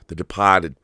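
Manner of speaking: "The Departed" in a Boston accent, R dropped. Shown as a demonstration. Repeats title in Boston accent.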